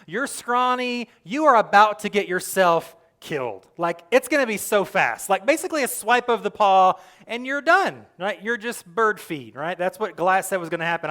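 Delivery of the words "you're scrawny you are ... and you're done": louder, higher worried king; Saul warning David. Retold or imitated. Saul warns young David, louder and higher. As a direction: urgently warn the scrawny boy. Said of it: "He sees".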